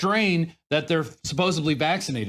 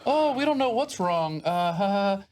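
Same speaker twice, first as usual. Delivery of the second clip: higher, with a careless little laugh; mock carefree laugh; 3 semitones higher than usual. Mimicking a careless playground mother, laughing it off. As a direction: play it off with a fake chuckle. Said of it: "she's kinda laughing about it".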